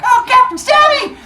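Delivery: high, loud heroic call; battle cry. Retold or imitated. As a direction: charge in shouting your hero name. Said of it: "she's like".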